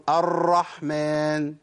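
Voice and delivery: الرحمن with the r rolled repeatedly, held long; over-trilled r. Shown as a demonstration. Teacher mimicking those who repeat the Raa, over-trilled الرحمن. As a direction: roll the r in الرحمن too many times. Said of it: "الناس اللي بتكرر بتعمل إيه".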